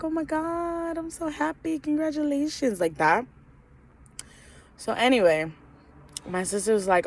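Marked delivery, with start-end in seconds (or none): 0.0-2.8 high-pitched mock gushing; hammed-up happy congratulations squeal; imagined overjoyed mom. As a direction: act out a thrilled mother, voice way up. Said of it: "hoped that she would be like".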